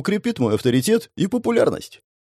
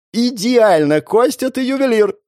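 delighted praise; 9 semitones higher, 3 dB louder than usual. Acted. Photographer delighted by the shot.

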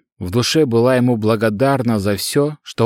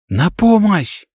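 calling for help; 9 semitones higher, slower than usual. Acted. Girl finding her master lying still, crying out for help. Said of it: "как можно громче закричала".

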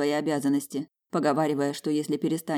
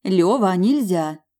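louder, clipped stern command; 3 semitones higher, 6 dB louder, much slower than usual. Acted. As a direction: say no firmly. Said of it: "строго отчеканила я".

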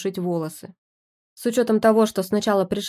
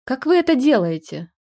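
barked; 5 semitones higher, 5 dB louder than usual. Acted. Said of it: "рявкнул муж".

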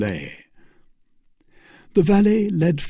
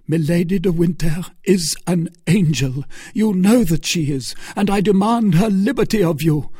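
building higher and louder to the end; rising demand; 8 semitones higher, 5 dB louder than usual. Acted. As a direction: climb into a fierce demand. Felton demanding her freedom.

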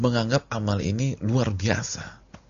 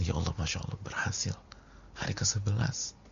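flat muttered quote; 10 dB quieter than usual. Retold or imitated. Quoting an indifferent faster.

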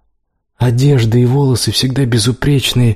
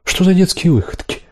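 disapproving mother; 9 semitones higher than usual. A narrator's reading. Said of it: "сердито поглядела на дочь, в голосе слышалось неодобрение".

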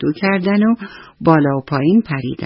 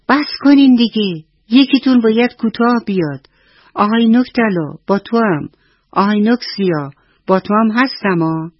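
higher, louder, fast scolding mother hen; angry shout; 6 semitones higher, 3 dB louder, faster than usual. Acted. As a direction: scold the squabbling chicks sharply. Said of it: "عصبانی شد و سرشون فریاد زد".

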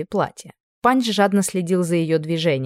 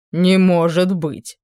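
mock amazement; 4 dB louder, much slower than usual. A narrator's reading. King feigns amazement.

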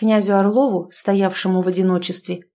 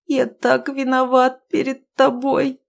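slow, higher tearful confession; remorseful sobbing words; guilty weeping; 5 semitones higher, slower than usual. A narrator's reading. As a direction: break down like a child. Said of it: "заплакал, словно дитя".

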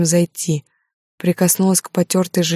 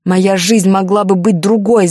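higher, much louder, slow drawn-out cry; furious scream; 3 semitones higher, 6 dB louder, slower than usual. Acted. Heroine screams at Alexander, furious high scream. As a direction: scream it with full rage.

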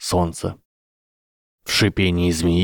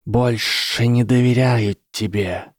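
curt; 3 semitones higher, slower than usual. Acted. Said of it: "коротко сказал Гарри".

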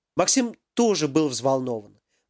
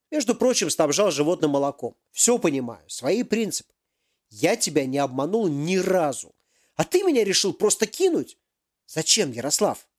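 angry professor. Acted. Professor confronts Yaroslav over the missing device, indignant. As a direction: demand answers like a cheated boss.

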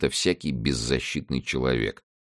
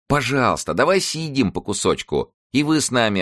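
put-on pleading young girl; 11 semitones higher, 4 dB louder than usual. A narrator's reading. Girl begs to eat pie.

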